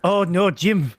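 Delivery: lightly voiced YouTuber impression; a hint of Kevin's gamer-commentary voice; Call Me Kevin. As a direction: imitate Kevin fussing over his character. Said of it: "try doing a Call Me Kevin voice".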